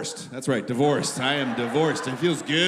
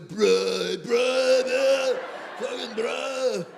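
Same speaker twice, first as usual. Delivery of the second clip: drawn-out, higher snowboarder bro voice; mock snowboarder impression; 5 semitones higher, much slower than usual. Skier doing an impression of a snowboarder, mocking voice. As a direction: stretch each word like a mocked snowboarder. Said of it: "skier does an impression of a snowboarder".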